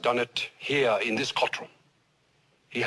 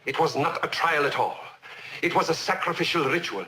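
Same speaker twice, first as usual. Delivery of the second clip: mounting confession; 5 semitones higher than usual. Acted. Judge on trial confessing a rigged verdict, mounting confession. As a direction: pitch climbing as the admission builds. Confession gathers force before interruption.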